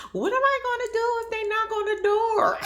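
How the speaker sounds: high squealing laugh through the question; laughing disbelief. Real, not acted. Vlogger cracking up at the TV, laughing through it. Reacting laughing to reality show.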